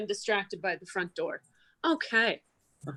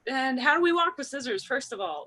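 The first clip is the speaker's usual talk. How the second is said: kindergarten teacher voice; 4 semitones higher than usual. Retold or imitated. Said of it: "be like".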